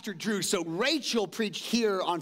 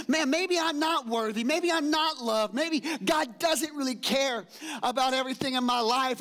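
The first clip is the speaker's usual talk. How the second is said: self-pity; 6 semitones higher than usual. Retold or imitated. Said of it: "it goes from there to saying".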